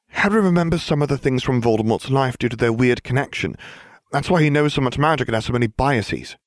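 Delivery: put-on high-pitched girl's voice; high, patient character voice; explaining Hermione.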